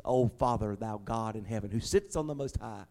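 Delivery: hammed-up ornate prayer building to a loud plea; mock pretty church prayer. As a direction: lampoon the flowery churchy prayer. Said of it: "one of those pretty church prayers".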